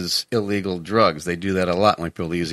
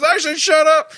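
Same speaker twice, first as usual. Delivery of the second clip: very high, loud panicked yell; acted freaking out; 7 dB louder than usual. Rookie cop silencing man who knows him, acted panic. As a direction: cut him off with a hammed-up shout. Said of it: "Parker freaks out".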